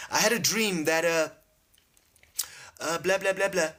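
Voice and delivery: high-pitched, halting retelling; child to mom. Acted. Child trying to tell mom a dream, high and halting. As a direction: pitch it up and fumble through the account. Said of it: "You go to your mom".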